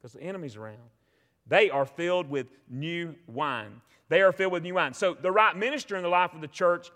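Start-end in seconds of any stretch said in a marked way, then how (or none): 1.5-3.8 slow, lower-pitched mocking quote. Preacher quotes the doubters at Pentecost, slow and mocking. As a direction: draw out the jeer, low and slow. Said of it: "others mocking said".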